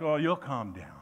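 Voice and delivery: an understated, patronising "settle down"; lightly mocking older Christian. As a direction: talk them down gently, half teasing. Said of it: "older Christians are like".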